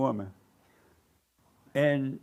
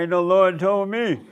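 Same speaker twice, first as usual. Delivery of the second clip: laughing retort; 5 semitones higher, 5 dB louder than usual. Retold or imitated. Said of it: "I said".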